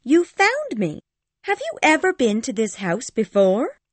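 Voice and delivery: put-on very high, gleeful girl's voice; laughing delight. A narrator's reading. Cathy found by Ellen at Heathcliff's house, gleeful. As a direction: ask brightly, voice pitched right up. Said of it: "she laughed".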